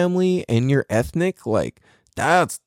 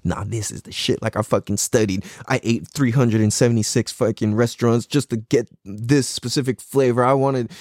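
inner cocky voice; 4 semitones lower than usual. Retold or imitated. Cook secretly boasting to himself, low and smug. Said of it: "in the back of your head".

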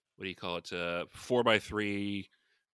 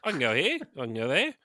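a much higher, cheeky emu voice; a greedy emu wondering aloud, pitched way up; 10 semitones higher, 6 dB louder than usual. Pretend. Emu mocking slow humans.

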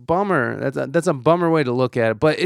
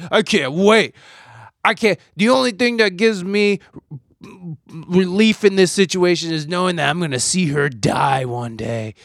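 playing the cold-hearted husband, half joking; mock callous glee; 3 semitones higher than usual. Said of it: "And I'm like".

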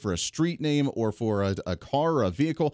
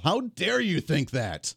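sarcastic outrage; 3 semitones higher, slower than usual. Pretend.

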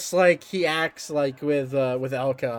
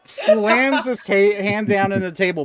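dramatic narration; 6 semitones higher, 6 dB louder, slower than usual. A narrator's reading. GM narrates dramatic table slam.

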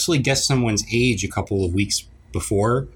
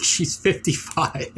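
voiceover announcer; 6 semitones higher, 4 dB quieter, slower than usual. Retold or imitated. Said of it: "the voiceover guy comes on".

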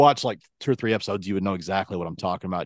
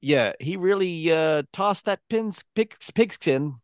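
sportscaster; 7 semitones higher, slower than usual. Pretend. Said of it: "easy for me to say".

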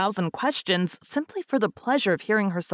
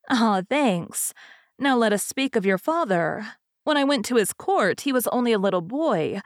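higher-pitched, rambling fairy hostess; chatty fairy; 3 semitones higher than usual. Acted. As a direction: prattle on as a self-satisfied old fairy. Narrator voices the chatty fairy.

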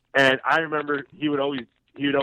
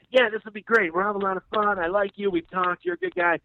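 high-pitched, easygoing welcome; imitated friendly reassurance; 7 semitones higher than usual. Host welcoming a first-time producer, imitated friendly chatter. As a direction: put the newcomer at ease, pitched up.

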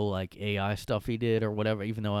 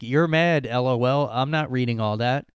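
loud dismissive read; 6 dB louder than usual. Retold or imitated. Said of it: "responds back".

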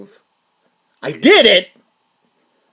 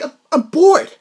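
high, laughing whine of boredom; mock-whine bored with a growing laugh; laughing I'm bored, louder each time; bored through laughter; 10 semitones higher, 4 dB louder, much slower than usual. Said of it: "I'm like".

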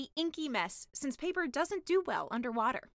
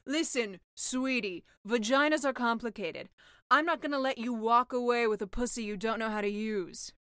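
louder, firm motherly witch; sea witch voice; 5 dB louder than usual. Acted. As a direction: set her straight, sweetie.

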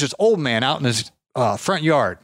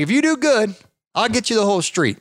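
imitating old man; 8 semitones higher than usual. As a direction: play the tired old neighbour. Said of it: "he's like".

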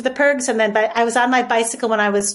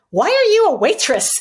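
higher and louder, disbelieving; astonished question; 7 semitones higher, 4 dB louder than usual. Retold or imitated. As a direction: ask it like you can't believe she's a waitress. Molly asks, astonished.

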